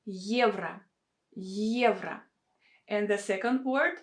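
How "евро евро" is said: евро opening on a clear stressed YE; Y plus E. Shown as a demonstration. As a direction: model евро as YEV-ra. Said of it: "pronounce it with a combination of sounds".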